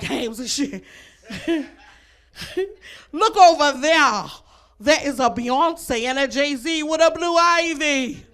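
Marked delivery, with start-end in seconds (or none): 3.1-8.3 hammed-up nature documentary host, slow and drawn out; slow, lightly voiced wildlife-show narration; Steve Irwin. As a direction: loosely imitate an excited wildlife presenter spotting animals. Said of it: "That was my Steve Irwin impression".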